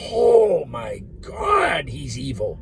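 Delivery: loud, very slow, high outrage; outraged shout. Real, not acted. Shouting his outrage about Warnock to viewers. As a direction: shout it in disbelief.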